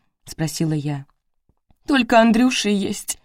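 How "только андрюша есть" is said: higher tearful voice, a touch of crying. A narrator's reading. Grieving mother tells strangers about her only son, crying. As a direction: let the tears rise into the line. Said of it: "заплакала Старостина".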